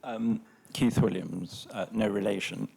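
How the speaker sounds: slightly croaky, a little hoarse. Real, not acted. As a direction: speak through a mildly croaky throat. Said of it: "I'm slightly croaky voice".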